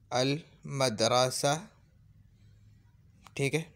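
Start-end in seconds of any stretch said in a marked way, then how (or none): 0.1-1.5 अल मदरसा drawn out slowly, al clearly marked; Arabic example. Shown as a demonstration. Teacher giving Arabic examples, very slow. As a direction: model the word at half speed. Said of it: "जैसे".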